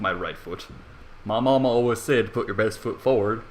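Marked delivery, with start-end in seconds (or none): none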